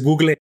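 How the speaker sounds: "Google" read the Spanish way, as "gugle"; "Google" with the final e sounded, Spain-style; Spaniards' pronunciation. Retold or imitated. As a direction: mimic a Spaniard saying "Google" as "GOO-gleh". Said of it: "como los españoles".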